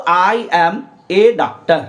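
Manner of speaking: slow, deliberate I am a doctor; slow model sentence. Shown as a demonstration. Teacher models the sentence for the class, slowly. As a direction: lay out I am a doctor word by word. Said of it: "ये plural तो नहीं है".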